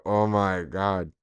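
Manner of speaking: hammed-up adoring fan; fawning fan. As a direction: lay on fake praise for a comic. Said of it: "go on and be like".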